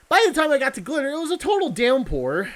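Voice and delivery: total downpour with a Texan twang, the ou drawn wide; Texan accent. Acted. Gamer reading the narration, accidental Texan accent. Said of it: "I said that with a Texan accent".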